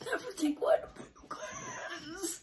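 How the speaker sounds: shouting. Real, not acted. Kid protesting about games.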